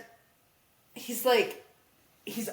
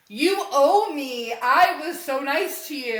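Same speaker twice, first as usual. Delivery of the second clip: mock demand; 3 semitones higher, 6 dB louder than usual. Acted pleading in retold quarrel.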